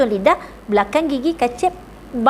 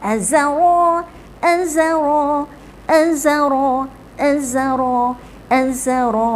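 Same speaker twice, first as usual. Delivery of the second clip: quick. Shown as a demonstration.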